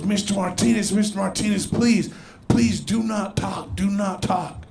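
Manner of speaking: lightly voiced urgent doctor; a hint of a doctor cautioning a patient; pleading doctor.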